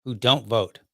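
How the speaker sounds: intro quote read. Acted. Quote read over intro music.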